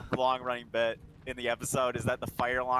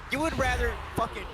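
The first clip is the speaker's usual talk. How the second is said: higher and louder, mock outrage; high indignant voice; 8 semitones higher, 5 dB louder than usual. Retelling an Always Sunny scene, high hurt outrage. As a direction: ham up the jilted partner. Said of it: "it's like".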